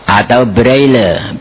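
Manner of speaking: high, declaimed reading of a question; formal question reading. Real, not acted. Preacher announces the debate question to the audience, formal reading.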